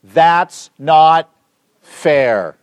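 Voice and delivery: loud, broken-up mock complaint; complaining. Preacher voices the man cut off in line, mock complaining. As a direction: punch each part as a mock grievance. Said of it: "he will complain".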